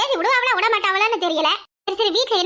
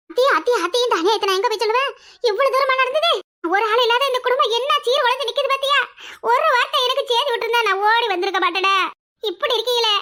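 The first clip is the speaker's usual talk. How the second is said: higher, keening lament; 4 semitones higher than usual. Acted. Mother grieving to daughter, lamenting aloud. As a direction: pour out grief over the ruined home.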